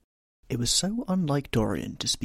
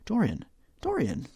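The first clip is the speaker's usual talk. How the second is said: high, pleading call of the name; dismayed, high-voiced appeal; alarmed cry; 12 semitones higher than usual. A narrator's reading. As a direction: cry out to stop him, pitched high. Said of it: "he cried".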